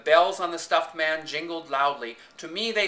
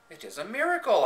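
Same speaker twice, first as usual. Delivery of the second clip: amazed exclamation, a bit higher; astonished; 6 semitones higher, 4 dB louder, faster than usual. A narrator's reading. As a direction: marvel at what you see. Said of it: "I said, astonished".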